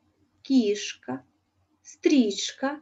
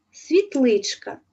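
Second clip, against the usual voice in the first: світличка slowed, louder and fond; affectionate diminutive; 3 semitones higher, 5 dB louder, slower than usual. Shown as a demonstration. Teacher to pupils, tenderly voicing the diminutive. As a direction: say it as if to something small and dear. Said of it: "із пестливо здрібнілим відтінком".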